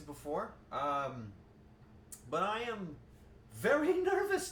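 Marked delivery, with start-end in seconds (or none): 3.5-4.5 high, laughing through the words; nervous laugh. Real, not acted. Streamer admits her nerves, laughing.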